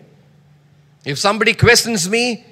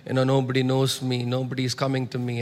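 discouraged; 7 semitones lower, 8 dB quieter than usual. Retold or imitated. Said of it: "I get so discouraged".

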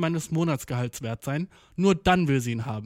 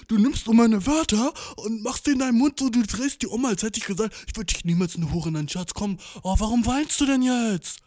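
defensive fiancé; 4 semitones higher than usual. Pretend. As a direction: play the guy wriggling out of an insult. Acts the fiancé defending himself.

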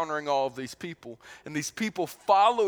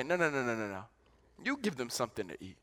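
softer, lower, calm insistence; gentle firm refusal; 6 semitones lower, 8 dB quieter, faster than usual. Acted. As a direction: quietly turn the request back on them. Jesus voiced answering disciples.

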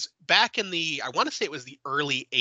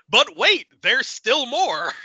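much higher, louder, slow "but wait"; playful announcer build-up; mock infomercial tease; 10 semitones higher, 6 dB louder, slower than usual. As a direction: hype it like a TV ad.

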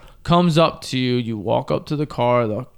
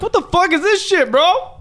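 shocked. Retold or imitated. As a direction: blurt it in total disbelief. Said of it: "I was like".

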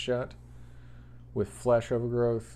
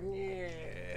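limp fizzle sound; 7 semitones higher, 10 dB quieter than usual. Retold or imitated. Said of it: "it kinda goes like".

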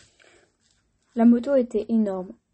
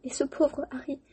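tearful giant; 4 semitones higher than usual. Acted. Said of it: "sanglota Hagrid".

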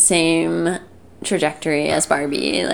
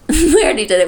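fast, laughing and louder; 8 semitones higher, 6 dB louder, faster than usual. Real, not acted. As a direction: laugh through it, quick. Laughing realization.

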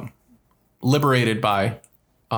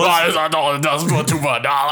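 put-on old man voice. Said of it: "he just kept going like".

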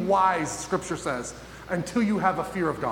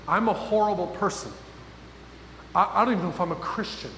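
despairing self-talk. Retold or imitated. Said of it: "things happening in your head".

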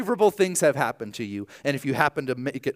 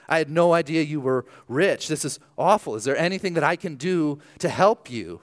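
mock concern; 3 semitones higher than usual. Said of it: "if I said something like".

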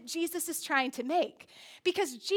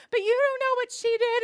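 higher, louder retold whine; mock whining; 6 semitones higher, 5 dB louder than usual. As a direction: imitate a whining, tearful child. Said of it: "whining and crying".

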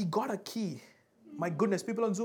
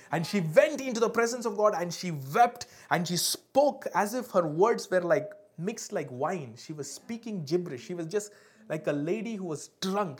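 emphatic sermon storytelling; impassioned preaching; 4 dB louder than usual. A narrator's reading. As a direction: punch each verb of her grief.

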